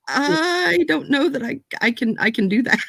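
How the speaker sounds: reluctant, halting protest; hesitant refusal. Acted. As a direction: stretch the first word, then stumble on unsurely. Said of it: "shaking her head, just, like".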